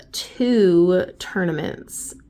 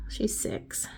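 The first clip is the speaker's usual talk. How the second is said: whispering; 11 dB quieter than usual. Real, not acted. Aside whisper to viewers.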